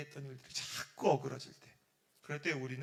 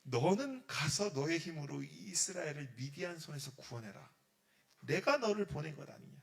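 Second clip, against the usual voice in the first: God's command; 4 dB louder than usual. Acted. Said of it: "딱 이럽니다".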